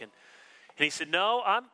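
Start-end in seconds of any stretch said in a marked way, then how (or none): 1.1-1.6 higher-pitched, mock-insistent retort; insistent pastor. Well-known pastor contradicting the author, retold as stubbornly sure. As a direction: imitate someone politely refusing to be corrected. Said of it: "he would not take no for an answer".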